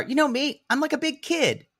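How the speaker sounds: high, goofy man-child impression; mocking man-child voice. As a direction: whine it like a big kid. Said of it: "his excuses are".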